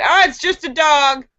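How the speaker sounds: a hint of an unconcerned cop; lightly voiced cop. Cop brushing off the noise from a basket, lightly voiced. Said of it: "And the cop said".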